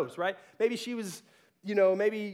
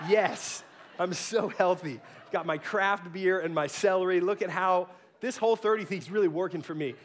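smug laughing self-mock. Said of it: "I'll be like".

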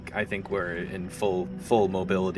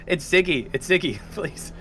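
high, voiced pretend whisper; mock stage whisper; 9 semitones higher, 4 dB louder than usual. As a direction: plead urgently through a closed door. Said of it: "I'm, like, whispering through the door".

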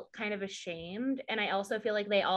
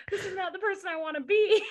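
higher, fast hammed-up shout; mock dramatic shout; 9 semitones higher, faster than usual. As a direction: overdo the anguished declaration. Mock dramatic self-reproach.

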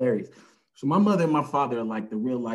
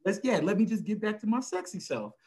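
boastful father; 7 semitones higher, 4 dB louder than usual. Retold or imitated. Father's bragging words to doctor.

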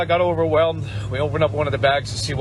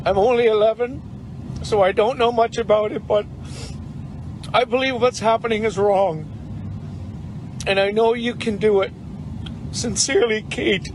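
real emotion held back, voice raised and tight while reading the note; getting emotional; 4 semitones higher than usual. Real, not acted. Volunteer reads a kid's note to truckers, choked up. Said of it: "Sorry, I'm getting emotional again".

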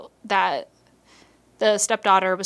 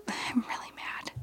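soft unvoiced confession of anger; whispered anger; 14 dB quieter than usual. Real, not acted. Admitting to listeners she is mad, in a whisper. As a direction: breathe it out, hushed and fed up. Still angry about hack, whispered.

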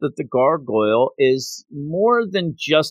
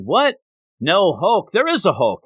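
high-pitched indignant "what?" retort; mock astonishment; 6 semitones higher than usual. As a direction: act out a startled objection, lightly hammed up. Acted startled retort in retold story.

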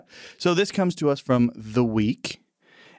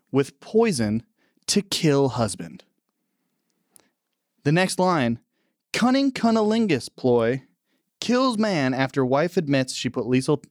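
headline read; 2 semitones higher than usual. Acted. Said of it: "the title of this article".

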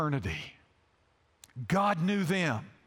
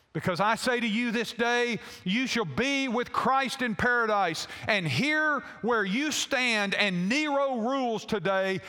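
raised, measured booming address; Apostle Peter, proclaiming; 3 semitones higher than usual. Retold or imitated. Blessing the Christians about to die, booming proclamation. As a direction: proclaim a promise to the condemned. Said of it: "with this loud, booming voice".

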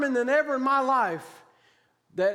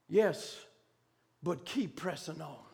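low, soft reply falling away; quiet retold voice from beyond; hushed answer; 8 semitones lower, 8 dB quieter, slower than usual. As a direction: answer gently, pausing after the first word.

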